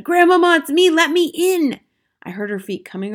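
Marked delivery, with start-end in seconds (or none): 0.0-1.8 high, loud urgent call; shouting. A narrator's reading. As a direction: call out to be let in. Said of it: "I shouted as loudly as I possibly could".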